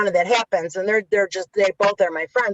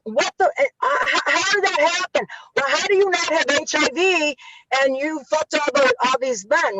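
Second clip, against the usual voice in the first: higher-pitched, incredulous imitation; Carmine impression; 5 semitones higher than usual. Retelling a friend's disbelief on the phone, incredulous imitation. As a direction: mimic a baffled friend, voice raised in pitch. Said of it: "he goes".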